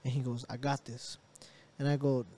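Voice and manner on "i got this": low, quiet, unbothered assurance; calm. Retold or imitated. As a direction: say it softly, cool and unworried. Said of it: "He's calm as can be".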